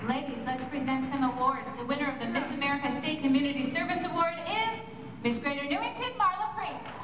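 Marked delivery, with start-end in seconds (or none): 1.7-6.9 formal award announcer; pageant host. Acted. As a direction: announce winners with a stage flourish.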